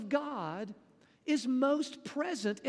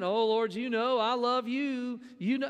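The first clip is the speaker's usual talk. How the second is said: a touch of brash self-assurance; confident. Retold or imitated. Peter assuring his Lord, mildly confident. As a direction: Peter sure of himself, lightly voiced. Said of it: "Peter doesn't give that confident tone".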